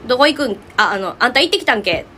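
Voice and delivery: casual Senshu-dialect question. Shown as a demonstration. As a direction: ask in Senshu dialect, ending on け. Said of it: "語尾が「け」で終わることが多かったり". (泉州弁で気軽に尋ねる)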